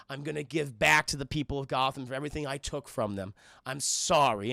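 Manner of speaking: low, subdued acted remorse; solemn apology. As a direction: apologize gravely and evenly. Villain kneels, apologizes to victim.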